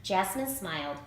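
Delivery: plain reading voice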